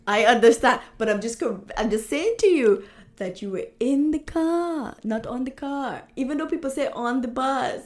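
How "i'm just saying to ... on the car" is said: in the car, not on the car, in and on hit hard; stress on in. Shown as a demonstration. Correcting his wife's preposition, stressing in and on. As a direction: lean on "in" and then on "on" to correct. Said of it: "correcting in versus on".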